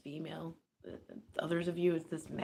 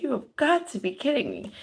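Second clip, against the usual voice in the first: incredulous; 8 semitones higher, 8 dB louder than usual. Retold or imitated. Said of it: "This person's like".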